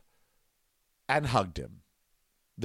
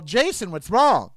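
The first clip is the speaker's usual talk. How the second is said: louder, slow concerned call to Jason; 3 semitones higher, 6 dB louder than usual. Retold or imitated. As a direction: call out to him across the tape, worried and slow. Calling to crying friend.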